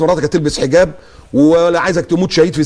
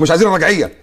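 rising higher, mocking tone; mocking quote; 5 semitones higher than usual. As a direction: parody the secular critic. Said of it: "يقول لك".

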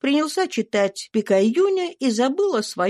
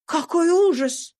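higher, slow, scandalised lady; shocked exclamation; 11 semitones higher than usual. A narrator's reading. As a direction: gasp in horror at the idea. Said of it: "вскричала Мария". (возмущённое восклицание)

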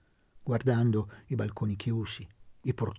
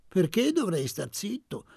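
higher and louder, irked comeback; irritated; 8 semitones higher, 4 dB louder than usual. A narrator's reading. Ferdinando answering the order to shut up, irritated. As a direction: snap back, annoyed at being told off. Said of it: "fece l'altro irritato".

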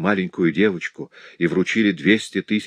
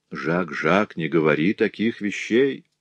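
ordinary delivery

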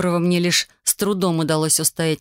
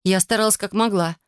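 ordinary delivery

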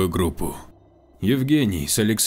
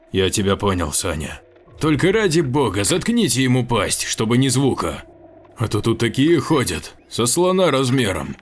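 radio shout; 5 semitones higher, 3 dB louder than usual. Acted. Shouting over radio to group.

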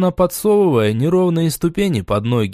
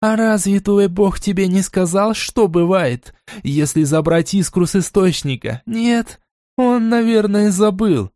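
gleeful mad goddess; 6 semitones higher than usual. A narrator's reading. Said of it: "радостный смех которой стали вплетаться ярко различимые нотки безумия".

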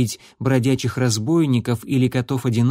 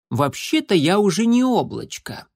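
much higher proud small voice; proud kitten; 7 semitones higher than usual. A narrator's reading. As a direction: correct her proudly as a kitten. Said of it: "гордо произнёс".

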